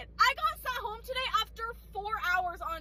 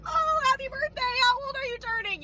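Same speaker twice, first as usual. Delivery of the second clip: put-on gushing to child; 4 semitones higher than usual.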